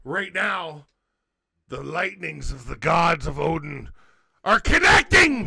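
a pro wrestler cutting a promo; hammed-up wrestler promo. Mock wrestler promo over whiskey.

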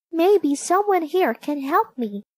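high, lightly voiced young heroine; a touch of hopeful wondering; hopeful thought. A narrator's reading. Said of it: "she thought".

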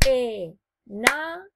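"E, na" split into separate beats; "E, na" spoken as separate clapped syllables. Shown as a demonstration. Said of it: "separando las sílabas".

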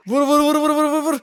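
ordinary delivery

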